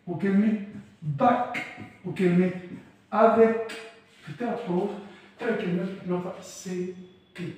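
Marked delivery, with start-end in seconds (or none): 1.0-1.6 "باك" ending in a clear, hard K; final C as K. Shown as a demonstration. Teacher showing how final C sounds, "باك" with hard K. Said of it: "حرف السي بيتنطق كي". 3.1-3.7 louder "افيك" ending in a hard K; final C as K. Shown as a demonstration. Teacher showing how final C sounds, "افيك" with hard K. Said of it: "حرف السي بيتنطق كي".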